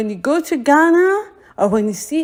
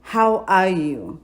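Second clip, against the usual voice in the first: slow; 4 semitones lower, slower than usual. Shown as a demonstration. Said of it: "how to say is".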